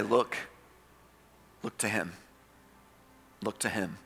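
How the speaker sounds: quiet repeated reassurance; hushed refrain. Acted. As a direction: let it fall gently and quietly twice. Soft repeated refrain closing section.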